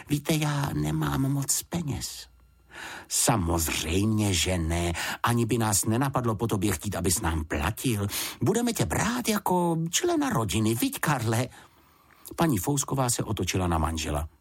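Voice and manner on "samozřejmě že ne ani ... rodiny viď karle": kindly mother. Acted. Mrs Fousková reassuring the bear and her husband, lightly voiced. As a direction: reassure the little bear, nudge your husband.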